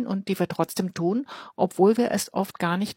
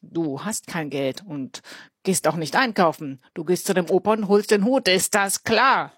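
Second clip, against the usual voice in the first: threatening. Acted. Big boy threatens Elias.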